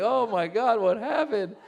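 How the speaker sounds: high-pitched, appalled disbelief; mock shock. Seeing himself on video with all that hair, mock shock.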